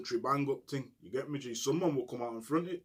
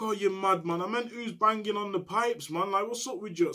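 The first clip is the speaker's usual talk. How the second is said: retold retort; 8 semitones higher, 4 dB louder than usual. Retold retort from other cell.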